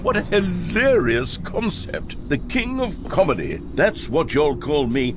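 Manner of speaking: high squeaky mock bucket voice. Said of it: "The bucket spoke".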